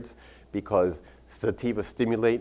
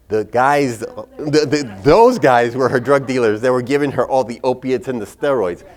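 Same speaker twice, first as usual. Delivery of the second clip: loud, higher-pitched rebuke; retold heated comeback, hammered out loudly; indignant retort; 4 semitones higher, 8 dB louder than usual. Doctor corrects her patient's son, indignant retort.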